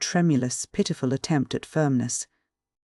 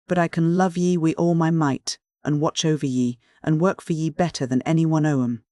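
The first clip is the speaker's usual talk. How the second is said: lightly voiced rough shepherd pleading his love; a plain northern man baring his heart, a touch of dialect; earnest Yorkshire shepherd. Anthony continues his plea.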